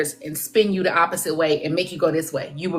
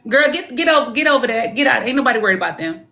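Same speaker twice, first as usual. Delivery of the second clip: brushing it off, sassy; dismissive sass; 4 semitones higher than usual. Retold or imitated. Psychic voicing a mother shooing off critics, mild sass. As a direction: wave off those people, mother style. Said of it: "she ain't cussing, but she".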